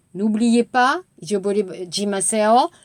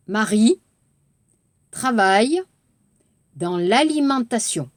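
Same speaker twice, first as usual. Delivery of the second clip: word by word; 2 semitones lower than usual. Shown as a demonstration. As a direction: read "Marie travaille dans l'alimentation" word by word. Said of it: "빠르게". (한 단어씩 끊어 읽기)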